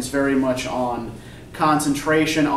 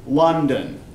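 "London" with LON louder than DON; stress on first syllable. Shown as a demonstration. Teacher showing the class stressed syllables, "London" stressed on LON. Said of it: "I say London more loudly".

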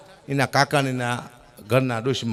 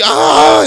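high loud "aaha" hawk with a laugh; mock old woman's throat-clear; 13 semitones higher, 11 dB louder, much slower than usual. Old granny clearing her throat to open the window, laughing hawk.

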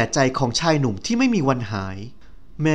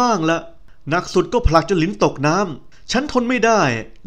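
friend Meka; 4 semitones higher than usual. Acted. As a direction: gossip to an old friend, half teasing.

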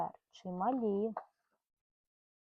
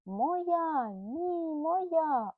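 squirrels squabbling; 5 semitones higher, much slower than usual. Acted. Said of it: "одна одній кричали".

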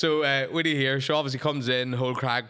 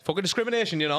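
higher-pitched mock traveller rant; 5 semitones higher, faster than usual. A traveller arguing with bouncers over a dog, mock indignant. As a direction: put on an indignant traveller's protest. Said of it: "If a rapper was a traveller".

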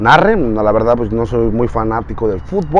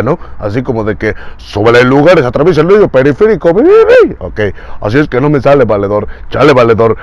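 Víctor voice. Retold or imitated. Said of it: "es la voz del Víctor".

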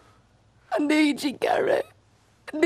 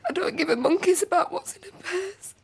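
tearful outburst; 3 dB louder than usual. Acted. Grieving daughter breaks down.

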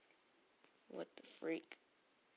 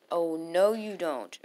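loud defiant repeat; 6 dB louder, slower than usual. Real, not acted. Repeats the warning.

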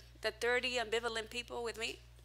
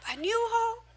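laughing disbelief; 8 semitones higher, 5 dB louder, slower than usual. Real, not acted. Laughing disbelief at New Hall.

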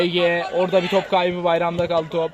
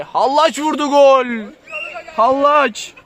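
rising thrilled call; excited goal call; 4 semitones higher, slower than usual. Real, not acted. (heyecanlı gol anlatımı)

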